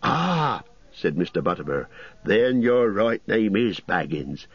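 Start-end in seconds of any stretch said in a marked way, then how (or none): 0.0-0.6 higher, bustling landlord voice; fussy innkeeper. Acted. 2.2-4.5 higher, bustling landlord voice; fussy innkeeper. Acted.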